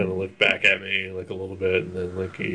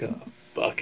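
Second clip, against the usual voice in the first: dread whisper; 11 dB quieter than usual. Retold or imitated. Sudden dread in theater.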